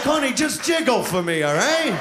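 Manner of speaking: shouted mock request to his partner. Man shouting to his lover in bed, half-joking shout. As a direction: bark it like a half-joking order. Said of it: "You're like".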